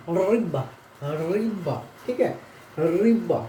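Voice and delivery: रिबा with a tiny pause before the end; teacher models रिबा, showing the little stop; pronunciation demo with a short stop. Shown as a demonstration. Teacher shows the Russian hard sign, pronunciation demo with a pause. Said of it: "stop होता है".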